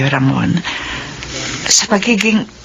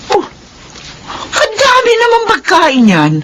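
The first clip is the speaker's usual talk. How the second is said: tearful joy; 6 semitones higher than usual. Acted. Mother surprised by birthday feast.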